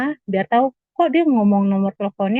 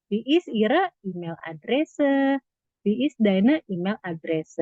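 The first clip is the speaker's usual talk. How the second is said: slow model question; slower than usual. Shown as a demonstration. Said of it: "tinggal diganti aja".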